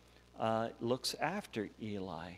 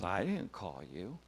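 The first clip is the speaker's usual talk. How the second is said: lightly voiced older priest, a little low; a hint of a woken priest, pitched down; Samuel; 5 semitones lower than usual. Priest answering the boy who woke him, lightly lowered voice. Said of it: "And Samuel goes".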